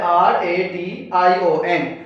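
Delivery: slow letter-by-letter spelling of आर ए टी आई ओ एन. Shown as a demonstration. Teacher spelling the word for students, slow. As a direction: spell it out slowly. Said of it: "अब next word है".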